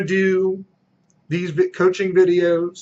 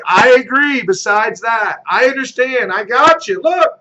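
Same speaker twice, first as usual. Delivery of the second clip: a raised, emphatic agent agreeing with the seller; agreeable salesman; 4 semitones higher than usual. Shown as a demonstration. Agent to a listing prospect, agreeable and emphatic. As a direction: win over the reluctant seller by agreeing. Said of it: "So it's attitude, agreement".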